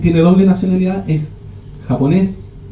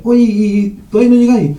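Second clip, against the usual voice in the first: impatient caller; 5 semitones higher than usual. Retold or imitated. Impatient friend calling the late one.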